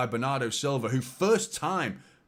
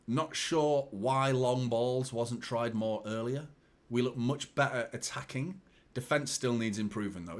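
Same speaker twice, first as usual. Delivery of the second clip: reading a viewer comment; slower than usual. Retold or imitated.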